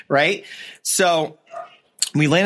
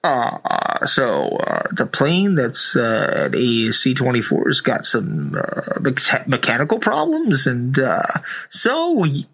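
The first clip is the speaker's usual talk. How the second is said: mock pilot announcement over the intercom; lightly voiced captain making an announcement. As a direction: drone it like a bored captain on the PA. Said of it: "they're like".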